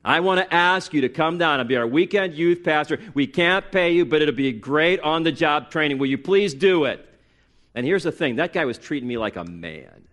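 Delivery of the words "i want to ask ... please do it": retold pastor's insistent, raised-pitch request; earnest recruiting plea. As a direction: press the listener to say yes, imitating a pastor. Acts out pastor pleading for help.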